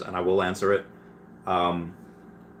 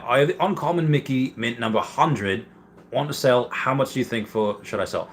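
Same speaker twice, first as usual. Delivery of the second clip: a weak, hammed-up Australian accent, slightly higher; poor Australian accent; 4 semitones higher than usual. Reading a viewer's question out on stream, in a poor Australian accent. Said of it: "a poor attempt at Australian accent".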